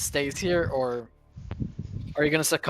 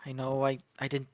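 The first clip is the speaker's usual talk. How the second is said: soft motherly voice; 4 dB quieter than usual. Acted.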